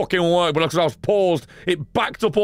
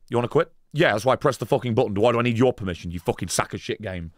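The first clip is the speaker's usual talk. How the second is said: arguing with game; 5 semitones lower, faster than usual. Retold or imitated. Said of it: "and it just pops up".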